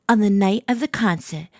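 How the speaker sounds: put-on light British accent for narration. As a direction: read it as a British student. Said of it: "I like your British accent".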